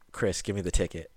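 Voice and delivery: low, hushed fatherly threat; imitating a dangerously quiet dad; quiet menacing demand. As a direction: drop it low and soft, demanding. Dad turns menacing, son scared.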